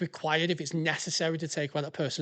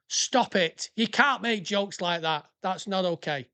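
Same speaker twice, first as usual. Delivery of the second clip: mock scolding; 2 semitones higher, 3 dB louder, slower than usual. Mock-scolds himself for his joke.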